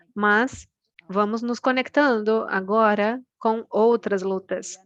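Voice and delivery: measured pace with pauses between phrases; slow down a little for the interpreters; phrase by phrase, leaving room for interpretation. Real, not acted. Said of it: "vou falar um pouquinho mais devagar".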